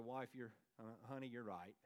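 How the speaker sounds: low, soft, halting admission; husband quietly giving in, hesitantly; retold concession. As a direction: concede it reluctantly, dropping pitch and volume. Retells conceding to his wife.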